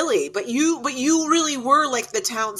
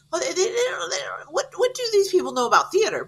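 mock skeptic; 7 semitones higher, faster than usual. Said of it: "I'm like".

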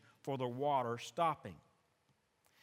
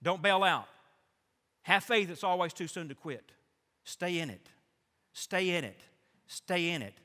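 exhorting; 2 semitones higher, 5 dB louder than usual. Retold or imitated. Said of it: "Rick will say".

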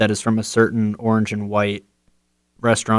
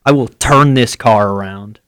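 mock parent scolding; 3 dB louder than usual. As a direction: play the fed-up parent. Parent scolding on car trip.

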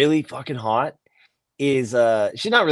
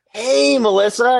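put-on higher-pitched, drawn-out hello to an old flame; retold friendly greeting; 8 semitones higher than usual. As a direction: act out greeting someone you used to know. Acting out awkward reunion with old flame.

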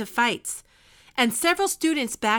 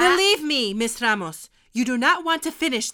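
stern warning; 5 dB louder than usual. Acted. Teacher cutting off rude remark.

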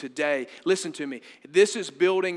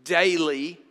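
"daily" set apart and loud; stress on daily; 7 dB louder than usual. Shown as a demonstration. Preacher underlining a word of the prayer, loud stress on "daily". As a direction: punch "daily" out on its own. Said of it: "underline this word too".

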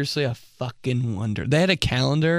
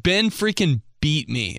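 drawn-out tease; 3 semitones higher than usual. Retold or imitated. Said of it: "the biggest tease of all time".

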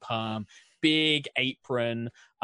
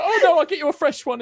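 put-on high, loud, fast English accent with laughter; laughing English baker; 12 dB louder, faster than usual. Baker woman laughing, fetching a fresh cookie, English accent. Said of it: "I'm gonna lose all my accents".

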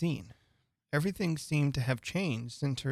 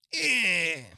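higher, wordless grumpy growl; mouse's growl; 5 semitones higher, 4 dB louder than usual. A narrator's reading. Mouse replies to Alice with a cross growl. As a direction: growl instead of answering. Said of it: "The mouse only growled in reply".

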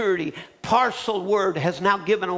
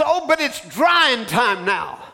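mocking quote; slower than usual. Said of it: "we think so many times".

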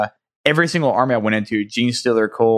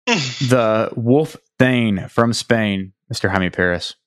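announcer intro; much slower than usual. Shown as a demonstration. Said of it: "I'm gonna reintroduce Jaime".

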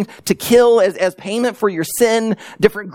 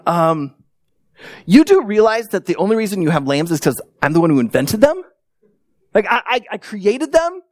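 puzzled correction. Acted. Acted puzzled God correcting the worshippers.

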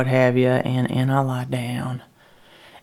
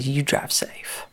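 soft farewell; 5 dB quieter, slower than usual. Acted. Parting words, whispered.

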